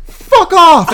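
high furious roar. Acted. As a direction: roar it with full force. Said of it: "Ashley roared".

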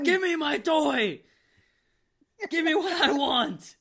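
very high, slow, loud whine; bratty child demanding a toy; whiny kid. Retold or imitated. Voicing the child, Batista line.

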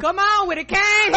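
excited cheer. Real, not acted. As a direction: cheer him on like a hype man. Hyping up the moonwalk story.

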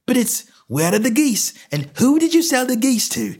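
high, fast, indignant stallholder; exasperated outburst, pitch right up; angry tirade. A narrator's reading. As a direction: rant like a pestered tradesman. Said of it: "provoked a burst of anger".

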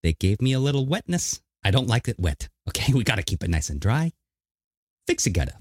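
lightly done New York governor voice; a hint of Cuomo, fast-talking tough guy; mock Cuomo hawking gutter repair; Cuomo impression. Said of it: "in a Cuomo voice".

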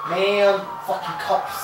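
frat bro. Pretend. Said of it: "voz de bros".

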